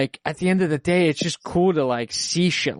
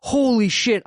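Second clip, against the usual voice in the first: jumps up high, amazed exclamation; retold surprise; 9 semitones higher than usual. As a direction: blurt it out as if stunned all over again. Retold shock at meeting couple.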